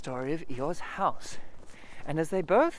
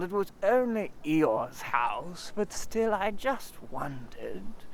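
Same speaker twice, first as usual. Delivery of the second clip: slow, glum Eeyore voice; lightly voiced gloomy donkey; slower than usual. Eeyore grumbling to Christopher Robin, slow and glum. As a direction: mope through every word.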